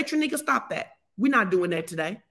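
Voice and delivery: firm, scolding yourself; stern self-talk. Shown as a demonstration. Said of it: "That's how you have to talk".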